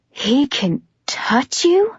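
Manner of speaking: a shocked, slow, breathless whisper; stunned whisper. Acted. Warner realizes Adam can touch Juliet, whispering. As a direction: breathe it out slowly in disbelief. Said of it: "His voice is tighter, higher".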